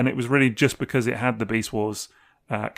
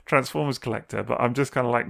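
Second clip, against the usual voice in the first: ordinary talk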